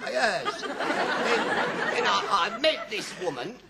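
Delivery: put-on high, slow, wailing old man; ranting old man. Old man in a chemist's to Stanley, ranting. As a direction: rant loudly, dragging out the grievance. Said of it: "this old man was ranting on".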